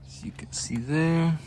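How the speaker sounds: soft unvoiced whisper. Real, not acted. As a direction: breathe it, no voice. Whispered aside while showing.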